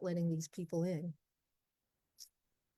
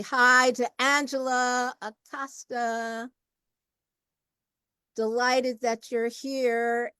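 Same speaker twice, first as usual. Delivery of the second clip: slow, drawn-out, delighted hello; welcoming host; 4 semitones higher, 7 dB louder, slower than usual. Real, not acted. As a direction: greet the guest with lingering pleasure. Host greets arriving guest.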